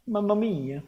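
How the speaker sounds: high, exaggerated Italian accent exclamation. Showing off an Italian accent to stream friends. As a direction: ham up a showy Italian accent. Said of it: "I'm very good at Italian accent".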